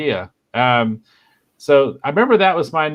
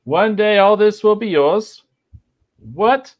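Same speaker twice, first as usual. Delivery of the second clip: higher, lightly acted British father; Monty Python quote; 9 semitones higher, 3 dB louder than usual. Shown as a demonstration. The speaker reads the film quote in a light put-on voice. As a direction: play the line lightly in a British voice. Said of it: "next quote".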